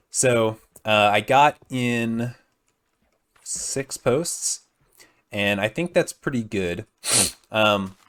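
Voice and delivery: groggy just-woke-up morning voice. Real, not acted. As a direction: talk like you just rolled out of bed. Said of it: "so my voice is kind of morning voice".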